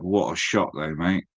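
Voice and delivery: unbothered, as if nothing went wrong; deadpan repeat. Retold or imitated. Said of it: "I still would have said".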